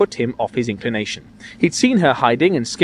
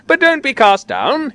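high, drawn-out urging; raised, anxious appeal; 12 semitones higher, 4 dB louder, slower than usual. A narrator's reading. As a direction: reassure him with worried urgency. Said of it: "he says anxiously".

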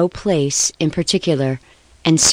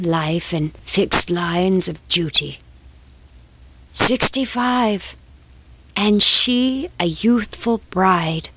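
passionate confession. Acted. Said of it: "the passion of confession long suppressed".

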